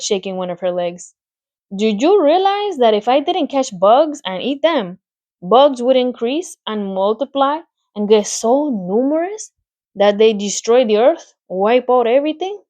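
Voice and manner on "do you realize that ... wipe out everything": Charlotte savouring her menu, rising higher; relishing spider. Acted. Charlotte lists her favourite foods to Wilbur, relishing. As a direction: list each bug like a delicacy.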